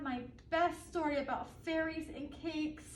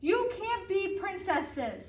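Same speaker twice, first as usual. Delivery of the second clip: put-on bossy child; 3 semitones higher, slower than usual. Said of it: "I kept saying".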